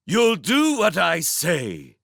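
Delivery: a prince villain making demands; menacing prince. Acted. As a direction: lean into every word.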